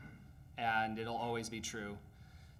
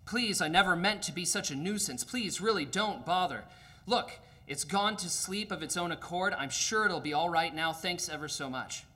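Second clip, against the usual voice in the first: pleading ghost; 4 semitones higher than usual. Acted. Ghost pleads with the angel not to kill the lizard. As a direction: beg him off with nervous politeness.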